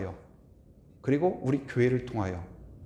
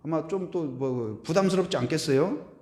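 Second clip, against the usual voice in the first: ordinary delivery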